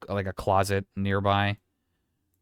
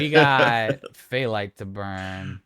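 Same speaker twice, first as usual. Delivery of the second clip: loud and slow; 8 dB louder, slower than usual. Acted. Dramatic GM line.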